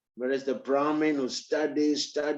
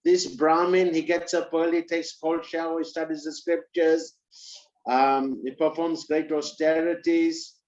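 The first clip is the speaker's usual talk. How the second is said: surprised disbelief; 2 semitones higher than usual. Acted. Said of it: "He was a little bit surprised".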